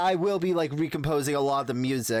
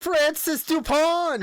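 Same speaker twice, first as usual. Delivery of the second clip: grand announcer; 12 semitones higher, 4 dB louder, slower than usual. Acted. Announcing co-host's fake name.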